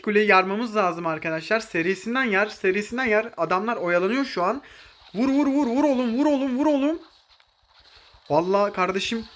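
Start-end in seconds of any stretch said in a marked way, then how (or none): 5.1-7.0 high, rapid hit chant; egging a teammate on mid-fight; excited urging. Real, not acted. Streamer urges a teammate during a fight, excited.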